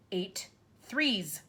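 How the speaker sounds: mock roar; shouted. A narrator's reading. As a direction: bellow at the dangling boy. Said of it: "the Trunchbull shouted".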